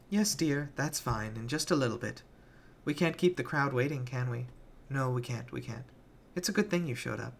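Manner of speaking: put-on a creepy girl humouring a grown-up; lightly voiced syrupy child villain; Penny's sweet voice. Penny's sugary voice resumed.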